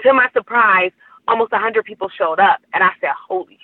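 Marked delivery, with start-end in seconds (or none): 3.3-3.6 high, startled exclamation; excited exclamation. Retold or imitated. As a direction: blurt it out in shock. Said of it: "I am freaking out".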